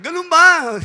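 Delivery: loud, high stunned question; loud high shocked ganun ba; stunned disbelief. Acted. Politician's stunned reply.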